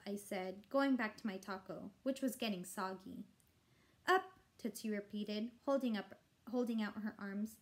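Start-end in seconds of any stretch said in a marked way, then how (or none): 4.1-4.4 put-on baby voice. Baby holding out her arms.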